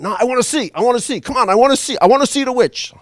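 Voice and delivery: put-on high, pleading little-kid voice, building; begging child. Five-year-old begging grandpa to see the witch. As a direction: whine it like a kid who won't give up.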